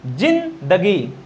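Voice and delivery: जिंदगी drawn out slowly with plain j. Shown as a demonstration. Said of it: "क्या?".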